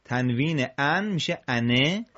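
"an" turning into انه, "ane"; tanween change. Shown as a demonstration. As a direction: contrast closed "an" with open "a-ne".

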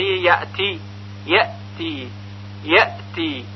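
یأتی with a clean glottal stop, no echo; correct hamza stop. Shown as a demonstration. Teacher showing learners the right hamza, clean unreleased stop in یأتی. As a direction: cut یأ off sharply, pause, then تی.

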